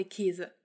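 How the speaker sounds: 'Käse' said like 'Keese'; regional closed E. Shown as a demonstration. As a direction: say 'Käse' with a tense, narrow long e. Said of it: "regions in Germany where you would".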